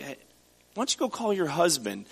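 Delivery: a hint of snark, teasing the question; snarky. Shown as a demonstration. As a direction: toss it off with a sarcastic edge. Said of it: "he's being kind of snarky with her".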